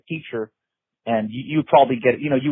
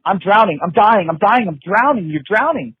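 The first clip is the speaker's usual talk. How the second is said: panicked drowning cry; 6 semitones higher, 4 dB louder than usual. Retold or imitated. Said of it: "So your brain is going".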